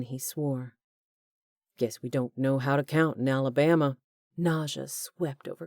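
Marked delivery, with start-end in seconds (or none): 1.8-4.0 a hint of a sneering Southern villain; mocking villain. A narrator's reading. Hugh mocking after firing, lightly sneering villain voice. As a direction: sneer it like a joke.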